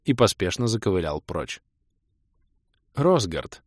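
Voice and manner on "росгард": warm greeting. A narrator's reading. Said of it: "С теплотой улыбнулась мне Снесса".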